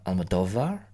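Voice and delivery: Almodovar with a final rise, al-mə-DO-var; rising Almodovar. Shown as a demonstration. Trying stress options on a director's name. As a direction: float Almodovar up as a question. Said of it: "covered all my options there".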